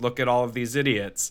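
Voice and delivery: ordinary talk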